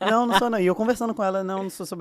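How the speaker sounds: loud, high-pitched protest; comic emphatic denial; insistent denial. Retold or imitated. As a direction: act out hurriedly correcting a fan. Acted denial to insistent fans.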